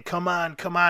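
urging shout. Retold or imitated. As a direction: egg yourself on like a beaten fighter.

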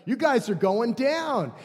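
a touch of gleeful doom; slow, taunting gloat; mock gloating. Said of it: "He's just like".

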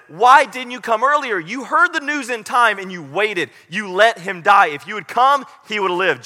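a hint of grieving sisters' reproach; reproachful sisters.

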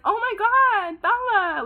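high, surprised mock greeting; imitating mom's surprise. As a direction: squeal out a startled welcome like his mom. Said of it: "She'd be like".

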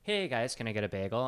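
put-on casual order in a Wisconsin accent. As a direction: ask it with Wisconsin vowels. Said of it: "my old accent from Wisconsin".

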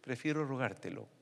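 "Prefiero rogártelo" said softly, lingering; soft repeat. Shown as a demonstration. Preacher savoring the phrase quietly. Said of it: "Me encanta algo".

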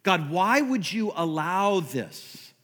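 lightly voiced self-pitying prayer; complaining prayer. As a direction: plead with God like a hurt, dutiful churchgoer. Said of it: "We all do this".

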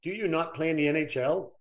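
high, loud imitation of a Swedish kid's accent. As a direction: butcher a Swedish accent as the puzzled kid. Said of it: "I'll butcher a Swedish accent".

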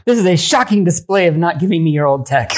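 breaking up while pretending outrage; laughing mock outrage. Real, not acted. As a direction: protest through laughter. Joking outrage amid laughter.

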